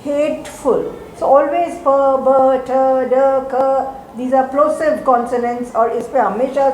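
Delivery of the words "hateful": hateful with the weight on hate; hateful, first syllable higher; stress on the first syllable. Shown as a demonstration.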